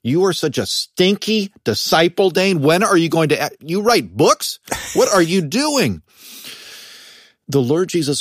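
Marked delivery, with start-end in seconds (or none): 0.0-6.0 higher, mock-scolding voice berating himself; scolding inner critic. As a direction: play the nagging inner judge with a half-serious sneer. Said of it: "I will certainly think".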